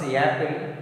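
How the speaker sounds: "apple" with an added initial y; wrong ya sound. Shown as a demonstration. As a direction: make "apple" sound like "yapple". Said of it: "ya sound".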